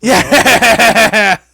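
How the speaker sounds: high, loud whooping yell; squad cheer. Acted. Squad cheers after the red bottom chant, loud whoop. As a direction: let out a long rowdy cheer.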